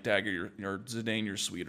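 soft, withdrawn murmur; quiet voice. Retold or imitated. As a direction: say it softly, barely there. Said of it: "and then she's like".

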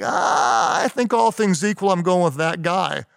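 high, hammed-up tearful wail; mock crying. Interviewers all crying pick that guy, mock weepy. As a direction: blubber it in imitation, easing off. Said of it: "we're all crying".

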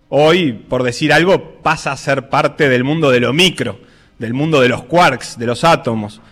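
measured reflective reading over music; radio essay narration. Acted.

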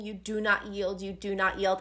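low and soft, repeated like a vow; mother's steady repetition. Retold or imitated. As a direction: quote a mother's quiet insistence. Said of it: "her mom is just repeating".

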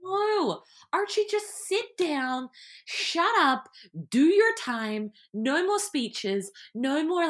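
mock-stern rant at a TV character; exasperated scolding. Real, not acted.

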